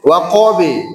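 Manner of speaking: WAQABI with the b bounced toward e; living qalqalah. Shown as a demonstration. Teacher repeats with class, Waqabi echo leaning to e. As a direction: release Waqabi into a light 'be'. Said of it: "hidup kolkolahnya dan condong ke imalah".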